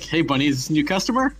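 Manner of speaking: lightly voiced Jamaican dealer; Jamaican accent. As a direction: ask in a mild Jamaican accent. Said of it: "very thick Jamaican accent".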